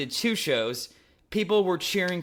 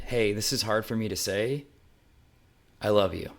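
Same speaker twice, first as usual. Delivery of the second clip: tender confession; 5 semitones lower than usual. Retold or imitated. Confessing love across the table.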